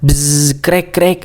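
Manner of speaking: spoken buzz and crack of saws; storyteller's understated sawing noises; machine and saw noises. A narrator's reading. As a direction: lightly imitate a buzzing saw, then two cracks. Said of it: "suara mesin dan gergaji".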